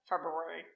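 February pronounced Feb-roo-ary, first R kept; February, carefully said in full; February with R sounded. Shown as a demonstration. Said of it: "say it like that".

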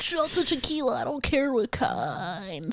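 rowdy college freshman, slowed drawl at the end; college boy voice. Retold or imitated. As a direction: play a cocky eighteen-year-old ordering shots. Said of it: "I'm like".

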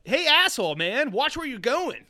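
loud, high retold scolding; acted-out heckle, stretching the end; mock angry yell. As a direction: call out an insult, imitating angry bystanders. Retold skiers confronting the man.

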